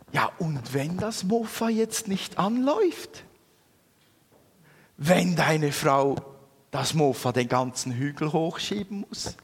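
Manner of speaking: inner voice. Retold or imitated. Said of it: "sagte mir so eine Stimme".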